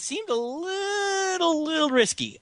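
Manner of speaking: high, laughing drawn-out words. Real, not acted. Cracking up at the gun gavel, high and laughing. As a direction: speak through real laughter.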